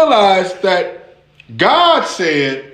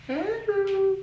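laughing call; 13 semitones higher, 14 dB quieter than usual. Real, not acted. Another voice calls and laughs.

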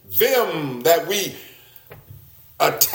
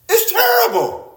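normal talking voice

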